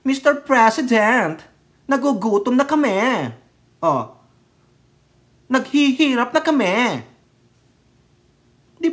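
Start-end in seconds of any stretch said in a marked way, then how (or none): 0.0-3.3 mocking, drawn-out wail of a protest speaker; higher-pitched plea, stretched in mockery; Attorney Gaga. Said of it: "Yung sabi ni Attorney Gaga". 5.5-6.8 higher-pitched plea, stretched in mockery; Attorney Gaga. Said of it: "Yung sabi ni Attorney Gaga".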